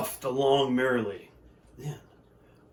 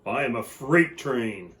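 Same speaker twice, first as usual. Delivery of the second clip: mild bellow; 4 dB louder than usual. Acted. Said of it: "strong engine bellowed".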